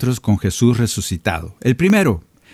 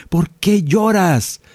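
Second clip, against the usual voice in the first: slow gentle question; 8 semitones higher, much slower than usual. Acted. Preacher voicing the Lord's gentle question.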